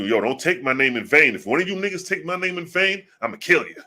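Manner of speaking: lightly acted boss making threats; threatening boss. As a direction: warn them off like a boss, pitch rising midway. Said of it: "the boss is telling you".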